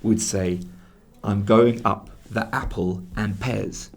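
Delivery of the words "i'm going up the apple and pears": slow Cockney example. Shown as a demonstration. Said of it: "So, for example".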